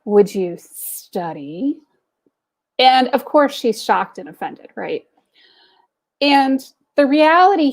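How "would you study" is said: slow, drawn-out professor punchline. Retold or imitated. Professor delivering the joke's twist to the student, slow and deadpan. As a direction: stretch each word to land the joke.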